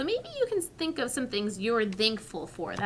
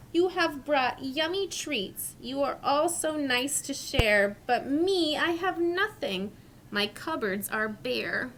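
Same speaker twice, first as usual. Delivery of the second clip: sad bear; 3 semitones higher than usual. Acted. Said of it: "Bear sighs and he moans".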